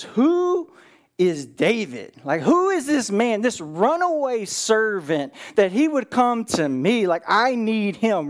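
mildly scornful, drawn-out key words; surly retort. Retold or imitated. Surly Nabal answers David's messengers, mildly scornful. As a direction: imitate an indignant, self-important man. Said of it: "a man who is surly".

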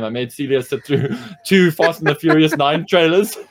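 laughing while talking. Real, not acted. Friend confessing trailer torment to co-hosts, laughing. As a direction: crack up partway through the confession.

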